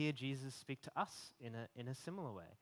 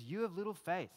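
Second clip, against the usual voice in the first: frustrated Jesus; 4 semitones higher than usual. Retold or imitated. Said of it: "That's kinda how I picture him".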